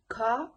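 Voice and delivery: "ka" said with a long open a and no r. Shown as a demonstration. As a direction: drop the r: "ka". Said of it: "now they pronounce it like".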